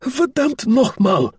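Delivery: slow, high German curse; querulous old general's outburst; high-pitched, querulous. Acted. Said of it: "his voice high-pitched and querulous".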